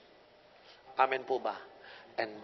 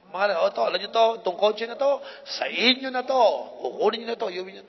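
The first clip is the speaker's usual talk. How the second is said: calling out; 8 semitones higher, 7 dB louder than usual. Retold or imitated. Calling family to give car.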